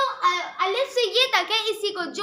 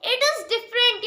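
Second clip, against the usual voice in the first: slow, drawn-out emphasis; slow emphatic; much slower than usual. Shown as a demonstration. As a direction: spell out each word slowly. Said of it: "but no".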